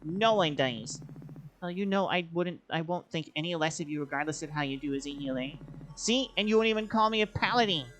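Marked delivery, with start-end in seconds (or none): 0.0-1.0 bitter, raised voice; bitter anger. Acted. Argument continues, bitter. 6.0-7.9 louder, pitch lifted, demanding; heated, demanding; angry accusation. Acted. Accusing her partner.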